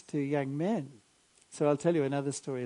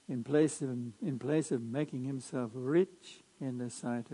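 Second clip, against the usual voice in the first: measured liturgical reading voice; Gospel proclamation. Acted.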